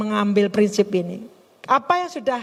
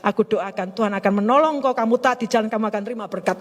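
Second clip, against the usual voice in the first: low, measured pretend benediction; mock pious blessing; 3 semitones lower than usual. Brushing off a needy widow with prayer, mock pious blessing. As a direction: send them off with a put-on pastoral calm. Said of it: "Saya nggak mungkin bilang begini".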